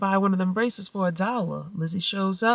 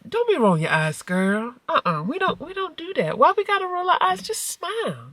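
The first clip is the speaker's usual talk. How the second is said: playful scolding; 10 semitones higher, 3 dB louder than usual. Retold or imitated. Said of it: "I said".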